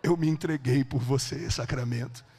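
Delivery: low, slow, solemn voice; measured, grave delivery with long pauses; Jesus. Retold or imitated. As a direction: speak low and slowly, letting each phrase settle. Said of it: "Jesus começou a falar comigo assim".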